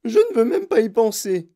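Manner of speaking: plus aigu et fort; hurlé. Acted. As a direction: hurler. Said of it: "hurla madame Gloop". (Mme Gloop hurle, aigu et fort)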